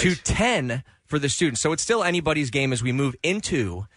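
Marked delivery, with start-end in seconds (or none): 1.6-3.9 upbeat game show host patter; smooth, savory host delivery. Acted. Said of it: "my sweet and savory game show host voice".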